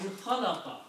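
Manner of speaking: "khalaqa" with a throaty kh; Arabic khalaqa. Shown as a demonstration. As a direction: rasp the kh in "khalaqa". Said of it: "next word".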